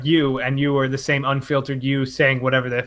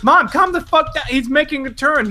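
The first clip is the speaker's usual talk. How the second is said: much higher, insistent protest; exasperated pleading; 11 semitones higher than usual. Retold or imitated. Imitating self to angry mom in the car, exasperated. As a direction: plead with her to settle down.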